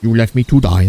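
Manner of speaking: lightly accented Indian impression at normal pitch; comic Indian accent; mock Indian accent. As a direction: repeat it as an Indian-accented accusation. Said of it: "That's how he sounds like".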